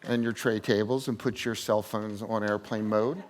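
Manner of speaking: slow, low cabin announcement; flight attendant. Pretend. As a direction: play a flight attendant on the PA, slowly. Mock airline announcement.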